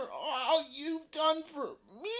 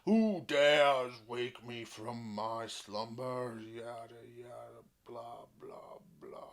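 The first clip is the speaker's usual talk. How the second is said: dragon voice. Acted. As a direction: boom it, then fade to a whisper. Mock dragon intro, fading out.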